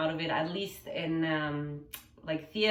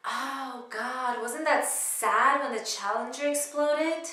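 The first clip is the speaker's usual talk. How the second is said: higher, acted lament, starting to build; comedic monologue; 6 semitones higher, 4 dB louder than usual. Cass regretting saying yes to the proposal, higher acted lament building. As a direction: lament it in a raised pitch, gathering volume. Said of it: "it was a comedic monologue".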